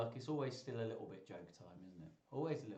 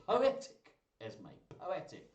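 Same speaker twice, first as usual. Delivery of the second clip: excited praise; 4 semitones higher, 4 dB louder than usual. Real, not acted. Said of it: "excited praise".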